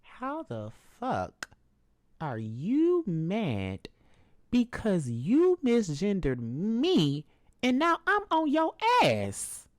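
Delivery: slow, deliberate words rising to a high, loud yell; slow retort building into a shout; building outraged retort. Retold or imitated. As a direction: drag out each word, then blow up. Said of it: "And then I'm like".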